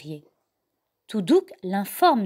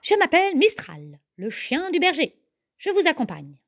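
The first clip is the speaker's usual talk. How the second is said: a lightly voiced friendly dog, a bit higher; sheepdog character voice; 5 semitones higher than usual. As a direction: introduce yourself as the shepherd's dog. (voix de chien berger, légèrement plus aiguë)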